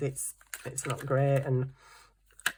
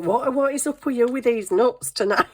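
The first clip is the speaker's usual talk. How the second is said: exasperated; 7 semitones higher, 4 dB louder than usual. Retold or imitated. Exasperated at dad.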